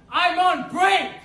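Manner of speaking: slow, drawn-out yell; loud sharp voice. Real, not acted. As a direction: stretch out each word of the yell. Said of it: "Why is you yelling?".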